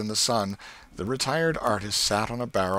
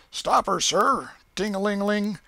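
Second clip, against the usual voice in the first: put-on high, loud boyish shout of commands; steamboat captain shouting orders; 13 semitones higher, 5 dB louder than usual. A narrator's reading. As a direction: bark the orders like a riverboat captain. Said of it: "giving the orders and executing them".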